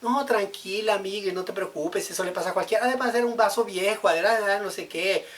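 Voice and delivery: high, loud hostess brushing it off; reassuring host. Retold or imitated. Host consoles the guest who broke the glass, high. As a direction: play the host saying it's nothing, high and quick. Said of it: "qué le dice la persona".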